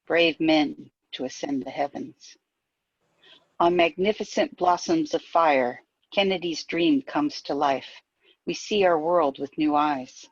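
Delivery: measured verse with falling line ends; poetry reading. Acted. Poet reading an Apollo launch poem aloud, measured recital. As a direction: recite evenly, pausing between lines.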